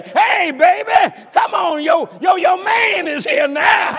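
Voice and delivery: put-on slow, high, loud crooning to his baby; hammed-up smooth lover, slow and high; romantic husband. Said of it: "hugs on her and say".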